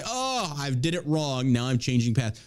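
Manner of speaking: slow, whiny mock apology; mock remorse. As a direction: drag out a fake repentant tone. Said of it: "sit there and say".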